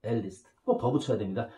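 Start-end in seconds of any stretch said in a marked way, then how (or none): 0.0-0.5 slow model sentence. Shown as a demonstration. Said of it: "둘 다 어떻게 쓴다?".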